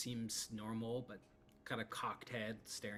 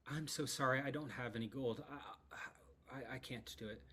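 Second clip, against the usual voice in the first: fading to an unvoiced whisper; apologise, voice dying away; sorry and ashamed. Lydia tells Proxy she has no gold, ashamed.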